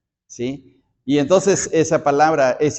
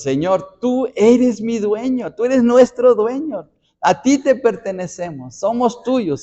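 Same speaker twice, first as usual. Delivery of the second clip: David's fervent declaration to God, pitched higher; heartfelt devotion; 5 semitones higher than usual. Acted. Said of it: "está expresando de una manera tan tremenda su sentir hacia Dios".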